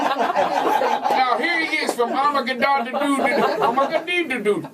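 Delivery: "Armageddon-dee-doo-dee-don" high, slowly garbled into extra syllables; hammed-up fumbling of "Armageddon-dee-doo-dee-don"; botched pronunciation. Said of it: "If you could pronounce the movie".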